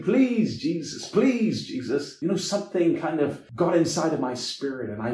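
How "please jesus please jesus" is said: imitating a desperate plea, high on each please; pleading cry. Man on crutches begging Jesus in the prayer line, imitated pleading. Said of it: "he was still there saying".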